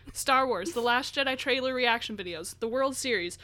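rattling off the list breathlessly; running out of air mid-list; all in one breath. Real, not acted. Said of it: "I'm out of breath".

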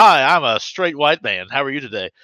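slowed mock Southern greeting; Southern accent. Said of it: "With a Southern accent, no less".

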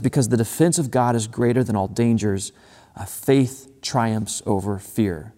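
"faith" stressed, slowed right down; a weighty reading; slow emphatic quote. Shown as a demonstration. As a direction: linger on "faith triumphs over fear". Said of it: "he says this line, and I, I think this line is so good".

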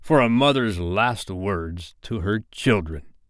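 slow, lightly gloating captain. Acted. Hook announcing a mother's last words, slow mild gloat. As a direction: savour it slowly as the villain. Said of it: "he called gloatingly".

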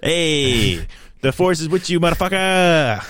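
casual buddy take on a dark lord, stretching the last word; Darth Vader. Acted. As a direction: spoof the villain as a chummy dude. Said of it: "Darth Vader with my voice sounds".

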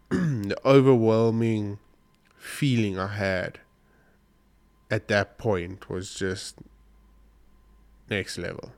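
slow, real emotion catching in the throat; fighting back tears, words coming slowly; choked up. Real, not acted. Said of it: "I'm extremely emotional".

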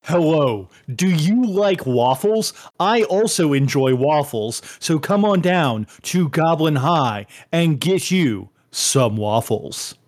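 lightly voiced ogre ad read; a hint of an ogre selling waffles; Mitz Ogre voice. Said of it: "in the Mitz Ogre voice".

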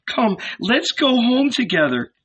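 high, coaxing mother's voice; tender pleading. A narrator's reading. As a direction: gently urge your child home. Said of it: "she said to him tenderly".

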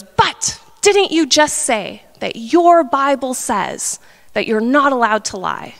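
mildly mock-eager teacher springing a trap; excited gotcha. Philosophy teacher challenging his student's faith, mock excited gotcha. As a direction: act out a pleased gotcha, drawn out at first. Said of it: "he was so excited".

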